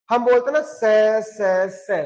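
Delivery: से with a plain dental स, the way people say it; wrong common sound. Shown as a demonstration. Teacher mimicking how students say it wrongly. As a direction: say से, से lightly with an ordinary s. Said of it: "गलत है".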